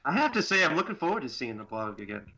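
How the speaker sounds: talking through a gas mask, muffled; muffled voice behind a mask. Real, not acted. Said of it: "you have a gas mask on".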